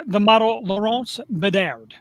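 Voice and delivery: attempted Canadian accent, slow. Host reads a Canadian model's name, attempted Canadian accent. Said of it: "How's my Canadian accent?".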